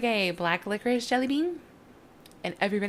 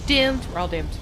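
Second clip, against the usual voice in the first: loud, melodramatic wail of doom; mock doom cry; 8 dB louder than usual. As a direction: ham up the despair. Mock panic over falling lantern.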